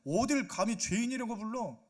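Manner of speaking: indignant anger. Acted. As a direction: protest like someone deeply insulted. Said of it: "화를 막 내요". (억울해서 화내는 시늉)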